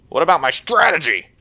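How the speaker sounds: high, loud mock outrage; mock protest. Player complaining about his foiled plan, mock protest. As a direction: raise pitch and volume in playful protest.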